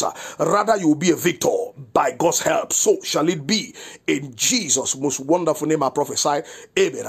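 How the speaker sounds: firm, rolling prophetic declaration over the listeners. Acted. Pastor prophesying protection over his listeners, in a firm declaring voice. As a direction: declare it with a preacher's authority.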